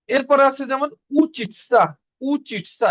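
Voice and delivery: slow, careful উচিতসা with clear ts; careful pronunciation. Shown as a demonstration. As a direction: spell out উচিতসা slowly. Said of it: "এটার উচ্চারণ উচিতসা". (উচিতসা ধীরে, স্পষ্ট উচ্চারণ)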